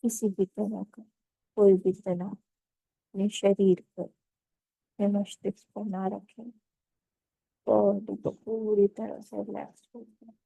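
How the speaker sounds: calm, measured meditation guide with long pauses; guided meditation. Acted. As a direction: ease them into stillness, phrase by unhurried phrase.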